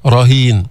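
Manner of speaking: heavy, full ر opening رهين; tafkhim of ر. Shown as a demonstration. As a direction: say رهين with a thickened ر. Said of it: "بالراء لأنها مفتوحة". (تفخيم الراء في رهين)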